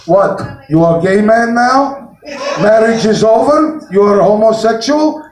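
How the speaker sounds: lightly voiced Russian wife, questioning; Russian accent. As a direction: ask it with a hint of a Russian accent. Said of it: "wife was Russian".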